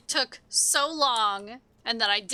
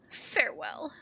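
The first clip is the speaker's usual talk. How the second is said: breathy theatrical parting whisper; whispered farewell; 4 semitones higher than usual. Acted. Bibi leaving Gigu for good, whispered. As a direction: let the word go out as a whisper. Dramatic parting in game dialogue.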